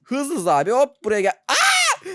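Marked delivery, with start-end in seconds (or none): 1.5-2.1 very high loud shriek; sudden real scream; startled scream. Real, not acted. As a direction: scream in fright. Startled in game.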